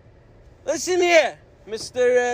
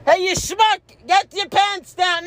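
yelling at a stranger; 5 semitones higher, 3 dB louder than usual. Retold or imitated. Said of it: "I will personally go over to him".

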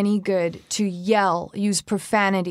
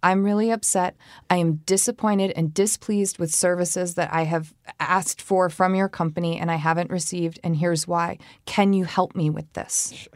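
polite upset. Retold or imitated.

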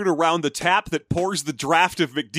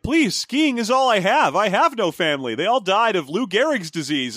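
pleading; 3 semitones higher than usual. Retold or imitated. Skiers begging Scrooge to let them stay, mock pleading. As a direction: mock-desperate begging, pitched up at first.

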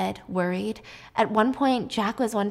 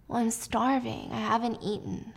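mild whining; 5 dB quieter than usual. Acted. Husband complaining of hunger to tired wife, whining. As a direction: whine quietly, drawing it out. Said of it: "he's kind of whining".

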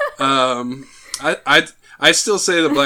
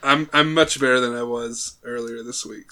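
hoarse sick voice. Real, not acted. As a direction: speak like you're still getting over a cold. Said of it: "you do have that sort of sick voice going on".

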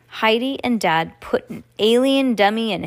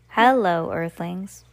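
measured mock-alien greeting, dropping away at the end; pretend alien; slower than usual. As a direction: lightly play at being an alien. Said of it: "pretending to be an alien".

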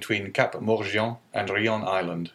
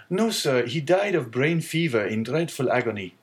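put-on higher, sorrowful young sailor's voice; grieving young sailor; 4 semitones higher than usual. Sailor explains the captain's death to the owner, sorrowful. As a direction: recount the agony with sorrow.

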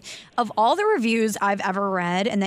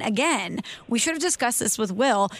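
normal talking voice

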